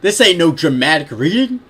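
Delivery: loud, high comic outburst; hammed-up disclaimer; mock declaration. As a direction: proclaim it in playful protest. Reader hams up excuse for bad voice.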